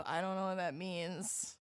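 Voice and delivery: quietly muttered bafflement; confused mutter. Retold or imitated. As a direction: mumble it, baffled and soft. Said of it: "this awkward standoff of".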